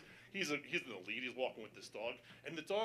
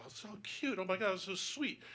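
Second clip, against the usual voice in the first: soft, higher-pitched cooing; gushing; 5 semitones higher, 6 dB quieter than usual. Retold or imitated. Man cooing at a sweet dog, gushing. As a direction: gush softly over a cute dog.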